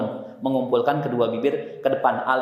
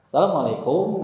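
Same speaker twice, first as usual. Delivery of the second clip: "Assalamualaikum" with a Sundanese lilt and rising end; Sundanese-flavoured greeting; light Sundanese accent; 2 semitones higher than usual. Retold or imitated. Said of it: "orang Sunda".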